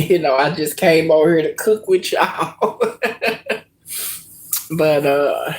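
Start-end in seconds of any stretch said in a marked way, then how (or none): 0.1-2.9 laughing through the words; chuckling while changing the subject. Real, not acted. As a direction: laugh it off lightly. Laughs off emotional topic.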